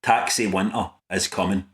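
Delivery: low, hushed doom-laden line; the taxi driver's grim warning, low and hushed; ominous prophecy. Retold or imitated. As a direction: say it like a dark omen. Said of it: "these were his words".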